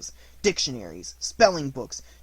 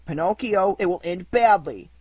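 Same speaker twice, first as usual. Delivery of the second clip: threatening; 5 semitones higher, 8 dB louder than usual. A narrator's reading. Boys threatening Pinocchio.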